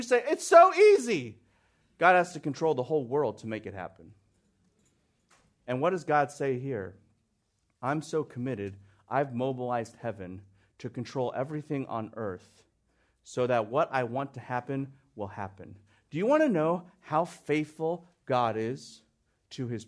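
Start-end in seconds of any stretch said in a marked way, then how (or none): 0.3-1.4 mock naive. Mocks naive request. 7.8-15.8 soft voice of God. Acted. Voices God's promise.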